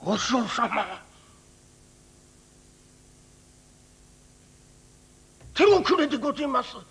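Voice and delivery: lightly voiced old countryman; a simple old farmer answering the priest; old villager voice. Old villager, hesitant, grim news.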